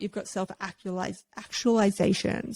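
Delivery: tripping over words with aligners in; speech snagged by dental aligners; wearing aligners. Real, not acted. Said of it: "aligners sometimes get in the way of my talking".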